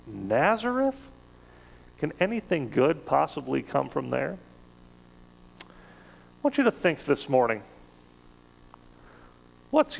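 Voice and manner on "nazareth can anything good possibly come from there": incredulous sneer. Retold or imitated. Nathanael sizing up Jesus from Nazareth, mock incredulous sneer. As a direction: act amazed anyone would name that town. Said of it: "looks at this guy from Nazareth and says".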